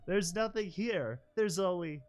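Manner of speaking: put-on high pleading child. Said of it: "Puppy pleading".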